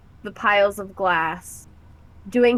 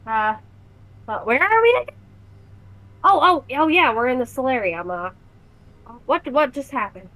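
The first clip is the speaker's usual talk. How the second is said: dazed Oog; 4 semitones higher, faster than usual. Acted. Oog waking from a daze.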